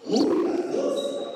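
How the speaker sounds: very high, drawn-out exclamation; mock surprise. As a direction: fake shock at the late hour. Workers notice time for lunch.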